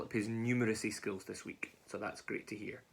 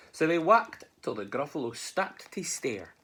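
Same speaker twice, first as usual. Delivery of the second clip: lilting, higher storytelling voice; story narration; 4 semitones higher, 4 dB louder, slower than usual. A narrator's reading. Narrator following mouse and gruffalo, lilting storytelling. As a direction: read it with picture-book swoops. Reads a Scots story aloud.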